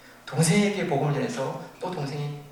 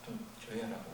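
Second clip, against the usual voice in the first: hushing guard; 3 semitones lower, 13 dB quieter, faster than usual. Retold or imitated. Guard telling prisoner to quiet.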